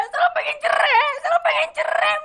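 crying plea. Acted. Begging mother, wanting divorce.

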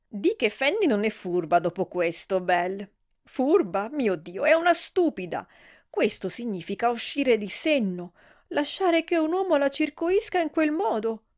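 flustered matron sputtering out her outrage; scandalised older lady, shrill with shock; shocked gossip. Acted. Mrs Worthington in shocked outburst.

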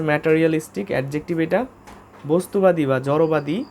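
usual speaking voice

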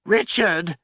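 sudden anguished shout; anguished cry. Acted. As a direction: cry out his name in despair. Desperate cry of a name.

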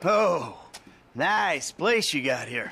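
low, slow sarcastic remark; drawn-out mock compliment. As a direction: say it slowly, dripping with sarcasm. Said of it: "I was just being sarcastic".

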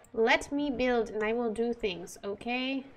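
pushy, fed-up demand to be left alone; exasperated snap. Real, not acted. Gamer to nagging game adviser, exasperated. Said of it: "That is the quote of the century".

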